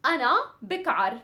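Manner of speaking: أنا بكعر rattled off fast; fast drill of أنا بكعر; fast demo. Shown as a demonstration. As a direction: snap out أنا بكعر quickly. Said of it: "really quick".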